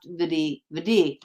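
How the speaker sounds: "Vidi" ending in a dee sound; correct pronunciation. Shown as a demonstration. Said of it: "It's literally just pronounced".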